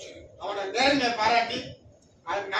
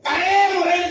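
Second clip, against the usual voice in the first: loud, higher-pitched storyteller's mock wail; comic loud lament; 5 semitones higher, 7 dB louder than usual. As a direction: cry it out like the distraught woodcutter, hammed up. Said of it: "கதறுவான்".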